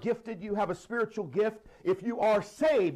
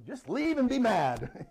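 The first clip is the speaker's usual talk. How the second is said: mock dismissive; 5 semitones higher, slower than usual. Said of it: "It didn't say".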